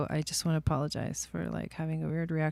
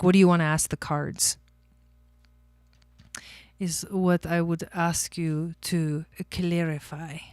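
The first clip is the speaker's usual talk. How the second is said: put-on Asian accent; 3 dB louder than usual. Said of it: "I didn't know I could do Asian accents".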